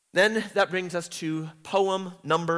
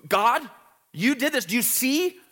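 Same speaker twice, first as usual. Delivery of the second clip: anguished prayer; 7 semitones higher than usual. Retold or imitated. Teacher voicing Zion crying out to God, anguished. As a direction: plead with God in distress. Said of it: "This is a prayer".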